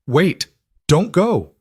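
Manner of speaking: put-on high, loud little girl crying out; pleading child shout. A narrator's reading. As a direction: call out like a frightened child. Child calling her back.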